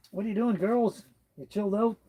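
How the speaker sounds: talking to pets. Real, not acted.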